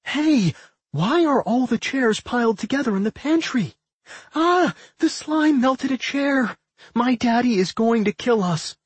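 high-pitched, alarmed screech. A narrator's reading. Millie screeches at the twins over the melted chair, aghast. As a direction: screech down at them in dismay. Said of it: "peered over the edge and screeched".

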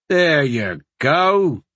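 slow, drawn-out encouragement; encouraging. A narrator's reading. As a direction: cheer the boy on slowly. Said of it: "Kreger said encouragingly".

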